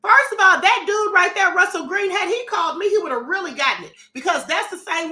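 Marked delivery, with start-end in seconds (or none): 0.0-3.1 loud, fired-up lead-in; loud heated warning. Real, not acted. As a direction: ramp up, ready to go off. Heated rant about caller.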